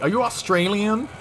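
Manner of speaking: high-pitched imitation of a questioner; mock curious question. Imitating someone who mistakes an English speaker, high mock-curious question. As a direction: ask it high, as a put-on innocent query.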